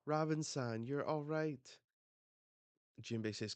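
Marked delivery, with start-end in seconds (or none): 0.0-1.8 relieved yell. Retold or imitated. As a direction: call out to her with relief. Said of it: "everyone yells".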